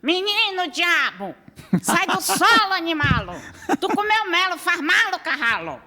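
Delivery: high shouted rhyming yell; raspy-voiced country woman. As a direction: yell out the window like a backlands mother. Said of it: "da janela e dizia assim".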